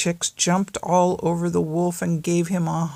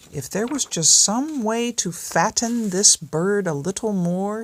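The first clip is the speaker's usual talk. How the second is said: sly wolf voice, pitched higher; a hungry wolf thinking aloud, a touch higher; scheming wolf; 4 semitones higher, 3 dB louder than usual. Acted. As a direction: plot it out like a greedy wolf. Wolf's scheming thought.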